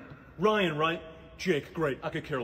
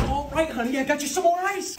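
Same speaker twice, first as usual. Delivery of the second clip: high, sugary, louder honey voice; fake sweetness; 11 semitones higher, 5 dB louder than usual. Nurse faking sweetness to the sick student, high and sugary. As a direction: put on a sugary nurse act.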